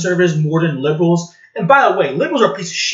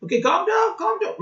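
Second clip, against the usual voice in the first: mock calming; 12 semitones higher, 6 dB quieter than usual. Mock soothing the angry patriot.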